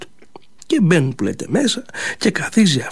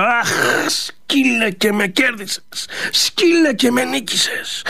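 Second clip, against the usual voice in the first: slow, high, beaten cry; a drawn-out, pained, higher cry of defeat; 7 semitones higher, slower than usual. A narrator's reading. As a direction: admit defeat with a long sigh. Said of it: "του φωνάζει αυτή".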